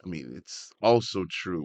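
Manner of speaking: usual speaking voice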